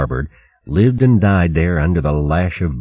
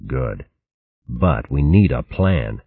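grim; 3 semitones lower than usual. Acted. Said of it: "Luke smiled grimly".

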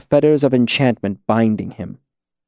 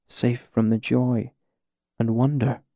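softly; 6 dB quieter than usual. Acted. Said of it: "Selitos spoke softly".

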